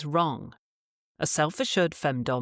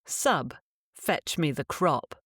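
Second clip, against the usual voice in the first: slow, calm, firm order; simple command; slower than usual. Shown as a demonstration. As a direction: give it plainly and unhurried. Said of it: "Rather, you say".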